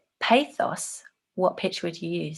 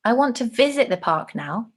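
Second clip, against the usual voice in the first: "visit" punched higher than the rest; stress on VISIT; 5 semitones higher, 4 dB louder than usual. Shown as a demonstration. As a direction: make "visit" the point of the sentence. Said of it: "say the next phrase in three different ways".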